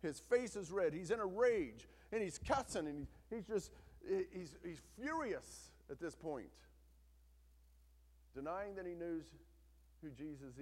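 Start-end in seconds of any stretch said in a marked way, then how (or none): 0.0-5.7 loud, high, driving sermon voice; fiery pulpit delivery; preaching at full force. Acted. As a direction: preach it hard, building the rage. Preacher describing Peter's rage.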